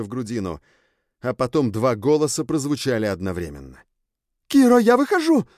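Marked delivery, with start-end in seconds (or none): 4.5-5.5 very high, loud cry of horror and rage; horror and anger. A narrator's reading. Sjun tells Kiro she is coming out, horrified. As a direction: burst out in fear and fury. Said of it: "объявила Сьюн с ужасом и гневом".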